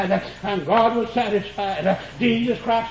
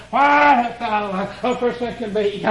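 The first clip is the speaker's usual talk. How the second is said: drawn out. Acted. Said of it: "cried with a loud voice".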